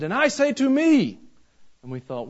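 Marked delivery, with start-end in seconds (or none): 0.0-1.2 quoting Brother Gomez. Retold or imitated. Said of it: "And then he said".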